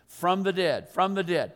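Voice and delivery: FROM THE DEAD hit firmly, falling at the end; "from the dead" punched as a standalone refrain; emphatic repetition. Shown as a demonstration. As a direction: drive home "from the dead" each time. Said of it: "I'm gonna emphasize that idea".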